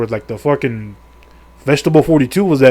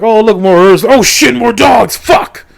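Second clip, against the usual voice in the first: higher and louder, a hammed-up yelp at each find; mock startled exclamations; 8 semitones higher, 5 dB louder, slower than usual. Recapping a horror game to viewers, mock alarmed outbursts. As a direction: play it like spotting trouble in the game, half-joking.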